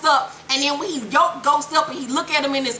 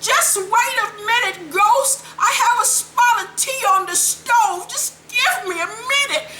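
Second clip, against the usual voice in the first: obvious fake stalling; 11 semitones higher than usual. Katie stalls Ghost through the door, exaggerated high call. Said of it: "she's talking all loud so Tom can hear".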